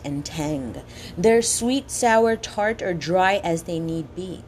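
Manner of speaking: slow, savoring each word; poem reading. Acted. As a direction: relish the sounds of every word. Reads quoted poem slowly.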